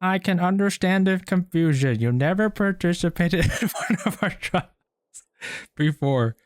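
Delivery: put-on high girly voice, cracking into laughter; girl voice. Streamer playing Jean explaining the trial, makeshift girl voice. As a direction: pitch it up as a makeshift lady. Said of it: "that's like my girl voice".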